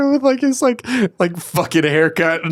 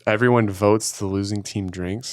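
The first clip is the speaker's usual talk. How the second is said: deep mock voice; 8 semitones lower, 4 dB quieter than usual. Echoes rule in low voice.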